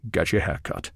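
quiet fatherly command; firm order. A narrator's reading. Connery giving the boy advice, low and firm.

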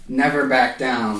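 slow, dramatic movie-line delivery; movie tagline. Retold or imitated. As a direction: deliver it straight to camera like a tagline. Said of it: "look towards the camera and say".

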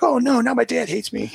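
put-on high-pitched wail of a kid; hammed-up woe; mock dismay. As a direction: act out a crushed child, played for laughs. Acted child's dismay after scolding.

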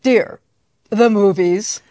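lightly imitated mid-Atlantic accent of dad; a touch of old movie mid-Atlantic polish on dad's words. Daughter quoting dad's movie-learned accent, lightly mid-Atlantic. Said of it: "The mid-Atlantic accent".

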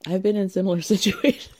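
breaking into a laugh mid-word. Real, not acted. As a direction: start straight, then crack up on the last word. Joking aside, breaks into laughter.

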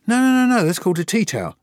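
hammed-up playground correction; friends insisting. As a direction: correct him like schoolfriends sure they're right. Friends correct him loudly.

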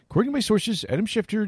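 high, mock insider voice; imitating an ESPN insider. Recalling the comic's ESPN bit, high mock reporter voice. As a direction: ham up a TV reporter's scoop. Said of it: "does all these dudes".

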